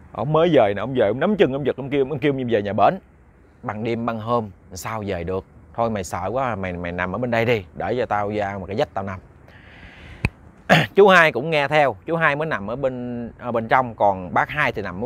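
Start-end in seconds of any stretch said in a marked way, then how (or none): 3.6-9.2 low, subdued reassurance; a hint of an elder, pitched down; lightly voiced elder cousin. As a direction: settle a scared relative with quiet authority. Older cousin settles frightened man.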